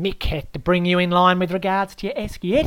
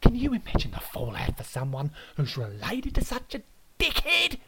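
loud, climbing higher with each mate; outraged Aussie rant; 5 semitones higher, 7 dB louder than usual. Acted. Host Aaron lectures the disgraced guest, loud and rising.

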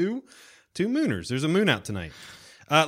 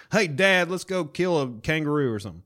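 lightly voiced movie son, pitched up; Danny McBride; 4 semitones higher than usual. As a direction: call out to dad in mock eagerness. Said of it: "Danny McBride will be fun. He'll be like".

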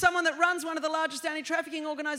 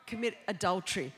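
mocking questions.

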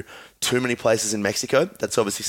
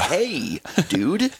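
mock American greeting, raised pitch; American accent; 5 semitones higher than usual. Co-host jokes for American listeners, mock American accent. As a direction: put on an American "dude" voice. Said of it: "that was me doing an American".

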